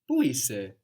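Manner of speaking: Πού είσαι? said fondly, as a term of endearment; endearing. Shown as a demonstration. Teacher showing an affectionate greeting to a loved one. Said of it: "as a term of endearment".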